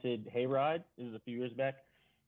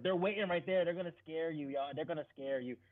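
mock warning; 3 semitones higher than usual.

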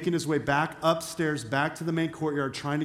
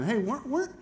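higher, louder voice of sudden recognition; excited bystander chiming in; 5 semitones higher, 4 dB louder than usual. Acted. Servant's relative accuses Peter of being in the garden, excited chiming in. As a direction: pipe up with halting, dawning recognition. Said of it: "all of a sudden he chimes in".

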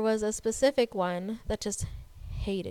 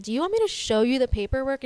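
retold confrontation; 3 semitones higher, 5 dB louder, faster than usual. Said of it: "I was like".

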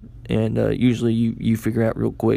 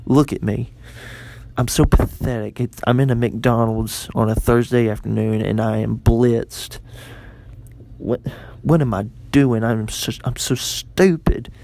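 self-berating. Retold or imitated. Drunk man berating himself.

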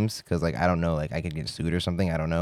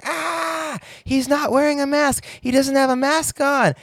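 put-on very high, loud little-girl shriek; screaming toddler; 4 dB louder than usual. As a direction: imitate a furious three-year-old yelling. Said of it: "She started screaming".

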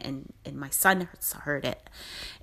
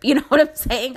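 laughing and louder, high; 8 semitones higher, 8 dB louder than usual. Real, not acted. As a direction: laugh it out with delight. Laughing at good news.

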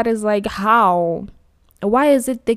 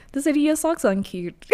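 mock crying whine; 5 semitones higher than usual. Retold whiny complaint.

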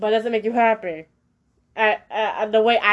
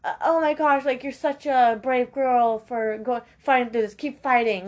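lightly higher, overdone sympathetic gush; mock gushing sympathy; 3 semitones higher than usual. Friend reacting to confession, lightly higher gushing. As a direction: play the fake supportive friend. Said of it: "they're just gonna say".

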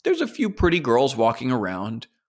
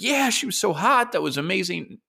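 much higher, eager bragging; eager guest; 8 semitones higher than usual. Retold or imitated. Guest answering Epstein, high and giddy. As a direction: brag like a giddy party guest.

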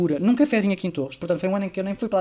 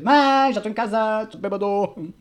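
yelling; 4 semitones higher, slower than usual. Retold or imitated. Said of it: "abri a porta aos berros".

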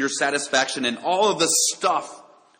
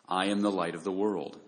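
"I am the light of the world" said low and soft, falling at the end; soft, hushed quote; 4 semitones lower, 6 dB quieter than usual. Acted. Jesus's words, first quoted.

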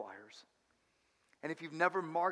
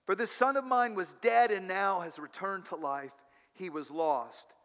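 joyful cry; 3 semitones higher, 5 dB louder than usual. Acted. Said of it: "he cried out".

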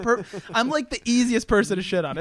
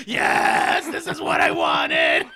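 mock gleeful yell; 3 dB louder, much slower than usual. Retelling his bloody fall, laughing mock shout of glee. Laughing at own pain story.

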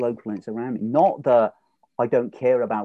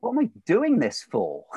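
mock frustration; 10 semitones higher than usual. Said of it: "this huge rage and frustration".

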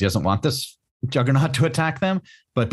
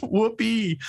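high, squeaky, strained by laughter; amused disbelief; 12 semitones higher, slower than usual. Real, not acted. Podcaster baffled by the cat's line, high and giggly. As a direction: ask it while still cracking up. Still helpless with laughter, incredulous.

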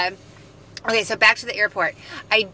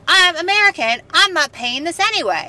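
high, louder retold refusal; defiant; 8 semitones higher, 3 dB louder than usual. American driver telling the Canadian officer no, defiant. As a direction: refuse with indignant, high-pitched entitlement.

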